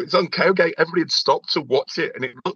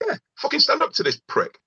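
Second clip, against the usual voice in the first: mock egging on; 13 semitones higher than usual. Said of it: "I was, like, going".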